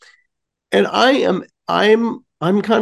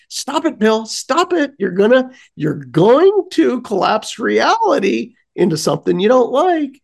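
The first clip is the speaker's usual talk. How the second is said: scolding conscience; 6 semitones higher than usual. Retold or imitated. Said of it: "the devil and angel on my shoulder".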